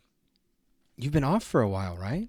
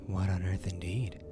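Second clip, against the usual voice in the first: lower villain mock; 5 semitones lower, 3 dB quieter than usual. Villain mocks the boy.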